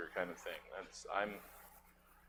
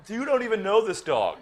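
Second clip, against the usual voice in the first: laughing; 9 semitones higher, 5 dB louder than usual. Acted. Scene breaks up laughing.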